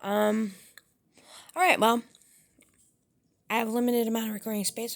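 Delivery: talking while chewing candy; mouth full. Real, not acted. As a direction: speak round a mouthful of candy. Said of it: "gonna be talking with my mouth full".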